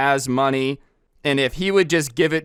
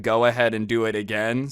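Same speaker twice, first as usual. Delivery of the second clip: understated, even retelling of a calm request; mildly reassuring cashier; 3 semitones lower than usual. Retold or imitated. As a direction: say it calmly, no pressure. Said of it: "had just very calmly said".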